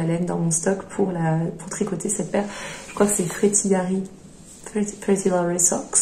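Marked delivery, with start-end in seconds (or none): 4.7-6.0 careful attempt at an English accent; French speaker's best English accent. Real, not acted. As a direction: try the English name in your best accent. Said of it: "je vous ai sorti mon plus bel accent".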